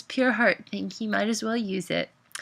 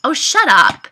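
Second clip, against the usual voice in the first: loud, high "shut up"; upset retort; 5 semitones higher, 12 dB louder than usual. A narrator's reading. Mariana stung by Caleb's insult, upset retort. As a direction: blurt it out, stung.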